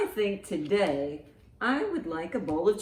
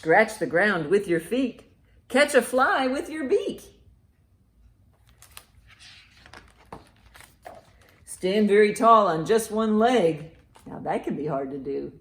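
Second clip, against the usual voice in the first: loud, lively picture-book read; reading to children; 3 semitones higher, 5 dB louder than usual. Acted. Librarian reads a bird book aloud to children, loud and lively. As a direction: read it out big for a room of kids.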